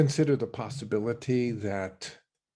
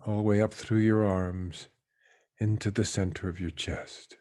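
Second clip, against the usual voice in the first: guided meditation. Real, not acted. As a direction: let each phrase settle downward into stillness. Leads a meditation.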